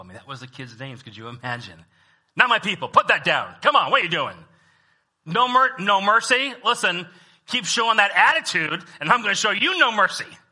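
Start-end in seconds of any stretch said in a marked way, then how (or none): 2.4-10.4 mock parent scolding, much higher and louder; hammed-up telling-off of a misbehaving kid; a parent shouting at a child named No Mercy.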